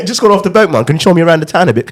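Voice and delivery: high, loud hammed-up tourist; fake British tourist. Friends overdoing the accent, hammed-up. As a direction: ham up a fresh-off-the-boat Brit. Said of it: "y'all put on a character".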